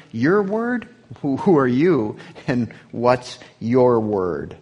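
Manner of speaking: scornful challenge. Acted. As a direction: scoff at his claim, drawing it out. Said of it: "Then the Jews said to him".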